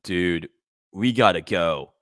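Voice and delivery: a flatter, calmer bro; correcting the impression. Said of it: "It's more like".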